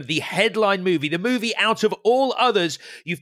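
hammed-up big reveal to an audience; mock show announcer. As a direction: build up like an announcer, rising in pitch. Mock announcement to a packed auditorium.

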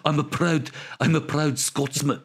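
a failed attempt at a South African accent, slowed; lightly put-on South African accent that slips toward Scottish; badly faked South African accent as a movie hero. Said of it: "I can't do a South African accent anymore".

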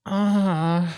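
drawn-out sigh of pleasure; blissful "ah". Retold or imitated. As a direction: mimic moaning over food. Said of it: "eating it and being like".

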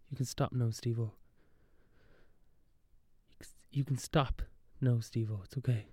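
softly reassuring, as in a movie moment; gentle reassurance. Pretend. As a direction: let the words settle softly, consoling Steve-O. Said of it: "have a Good Will Hunting moment".

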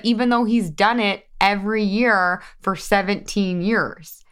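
ordinary talk, nothing marked

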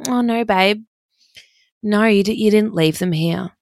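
airy mock-sweet bestie brushing it off; bestie's voice.

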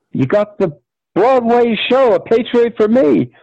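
high, thrilled announcement; hammed-up agent's good news; excited agent. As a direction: deliver big news up high.

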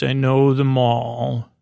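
slow, weighted delivery; quoted line, slow and deliberate; knowing, pointed. Retold or imitated. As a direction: say it slowly, like you know plenty. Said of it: "with the way he says it".

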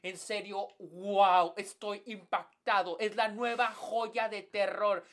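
hyped-up movie TikToker voice; overselling a horror film to viewers; clickbait video narrator. Retold or imitated. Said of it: "si tienes gente que dice".

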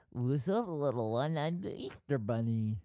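a barely-there Australian Easter Bunny, close to own voice; weak Australian accent for the Easter Bunny. Acted. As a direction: greet the little one as a faint Aussie Easter Bunny. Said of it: "I can just do the Easter Bunny accent".

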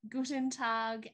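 slow, playful German greeting; mock German accent. Host greeting listeners in Germany, mock German accent. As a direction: put on a bad German accent, slowly. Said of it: "with our terrible accents".

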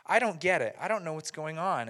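lightly voiced lost soul; down and confused. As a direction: act out a glum, puzzled struggle. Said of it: "he's down and he's kinda confused".

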